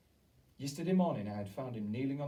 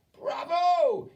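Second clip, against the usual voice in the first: high, loud cheer; yelling; 15 dB louder than usual. A narrator's reading. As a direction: cheer from the crowd. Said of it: "yelled the audience".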